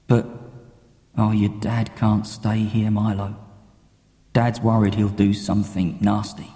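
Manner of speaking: a loving dad talking while he builds; dad's voice. Acted. Dad's voice continues.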